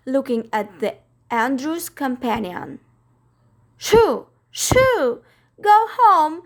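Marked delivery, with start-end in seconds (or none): 3.8-6.4 high, loud shooing; shooing cry. Acted. Miss Lark chases off the stray with loud high cries. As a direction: shoo the dog off loudly. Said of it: "she cried to the common dog".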